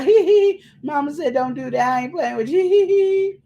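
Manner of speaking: high, loud mocking hee-hee between parroted words; mock giggling kids. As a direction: giggle in imitation of naughty children.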